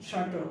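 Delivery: শাটল modelled as a single careful example word; silent letter demo. Shown as a demonstration. Teacher showing a dropped letter, careful model of শাটল. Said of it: "বি এর উচ্চারণটা লোপ".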